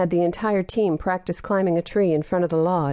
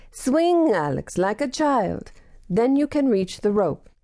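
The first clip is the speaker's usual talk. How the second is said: put-on higher, Swing called out in a Russian accent; Russian accent, encouraging; 5 semitones higher than usual. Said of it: "his Russian accent".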